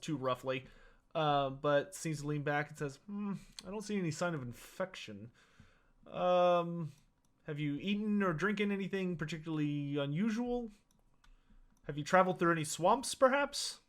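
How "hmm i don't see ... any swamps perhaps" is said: a doctor puzzling over symptoms; Doctor Rupert's voice. Acted.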